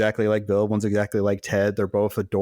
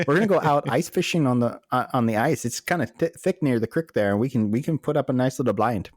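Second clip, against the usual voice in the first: playful put-on Midwestern accent; mock Midwestern ice-fishing talk. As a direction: play a Midwesterner, lightly accented. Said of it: "the true Midwestern way".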